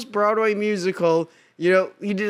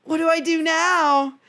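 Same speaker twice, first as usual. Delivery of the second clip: lightly voiced Orpheus; 7 semitones higher than usual. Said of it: "he's like".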